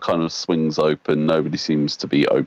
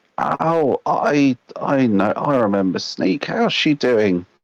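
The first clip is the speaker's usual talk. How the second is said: put-on hag voice, much higher pitch; 8 semitones higher than usual. Voicing a hag behind a desk answering a visitor, in a hag voice. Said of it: "Like the different sorts of hags".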